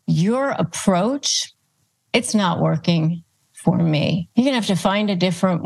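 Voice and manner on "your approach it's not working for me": "Your approach," slowed and rising, then a pause before "it's not working" and another before "for me.". Shown as a demonstration. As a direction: spell it out slowly, pausing between the parts. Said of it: "Again, you're pushing it back on them".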